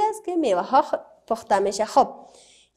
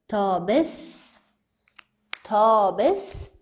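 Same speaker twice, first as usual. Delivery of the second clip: تا بس said very slowly, syllable by syllable; 3 semitones lower, much slower than usual. Shown as a demonstration. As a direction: stretch out تا بس for the class. (تا بس را خیلی آهسته و هجا به هجا بگو)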